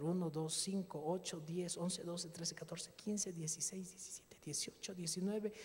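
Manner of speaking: soft, half-whispered counting; whispered counting of the bills in the taxi; secret counting. Retold or imitated. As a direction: count the bills under your breath.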